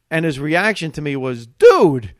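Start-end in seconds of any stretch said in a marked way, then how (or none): 1.5-2.1 much louder, higher drawn-out dude; emphatic dude. Retold or imitated. The host stunned by the warm-up set. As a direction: blurt it out in disbelief. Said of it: "that's exactly the word he said".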